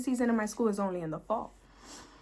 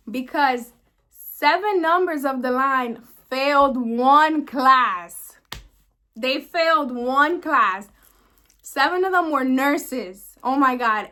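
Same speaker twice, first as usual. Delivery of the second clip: exasperated; 6 dB louder, slower than usual. Real, not acted. Venting about the denial.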